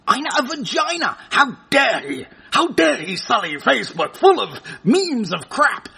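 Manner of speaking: hammed-up indignation; mock outrage. Comic reacts to the image posted on Facebook, mock outrage. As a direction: pretend to be scandalised, for laughs.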